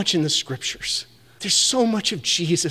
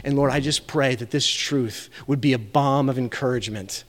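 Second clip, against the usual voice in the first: preacher praying over his church; closing prayer; 3 semitones lower than usual. Acted. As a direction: pray over the congregation to close the service.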